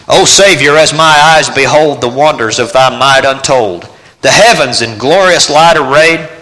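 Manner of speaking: slow, fervent hymn reading; hymn recitation. Acted. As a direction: recite it like a prayer.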